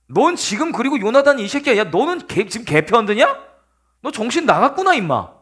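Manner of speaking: acted angry tirade at a son; enraged king. King accusing his son of taking sides, mock-furious. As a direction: scold him indignantly, playing the king. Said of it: "미친 듯이 길길이 뛰기 시작하는".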